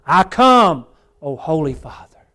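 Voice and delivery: preacher voicing an impassioned declaration; crying out. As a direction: call it out with passion. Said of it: "in his passion, ha-, cried out".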